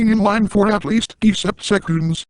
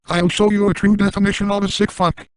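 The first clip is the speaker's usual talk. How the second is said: put-on American accent; 3 semitones higher than usual. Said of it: "with the current American accent".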